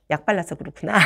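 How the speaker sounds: laughing at herself. Real, not acted. Teacher explaining her red face, laughing. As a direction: laugh it off, embarrassed.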